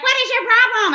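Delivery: hammed-up demand shouted across; mock yelled quote. Driver yelling at him from her car, high mock yell. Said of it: "And she was like".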